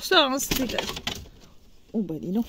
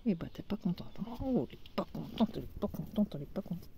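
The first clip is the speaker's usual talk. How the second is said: softer and softer, cooing to the hen; soft soothing; 5 semitones lower, 11 dB quieter, faster than usual. Real, not acted. Owner softly soothing her upset hen Bianca. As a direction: fade down to a coo. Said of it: "soothing the upset hen".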